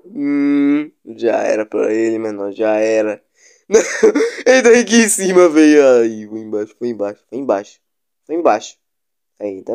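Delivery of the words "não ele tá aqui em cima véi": alarmed. Real, not acted. Monster nearby.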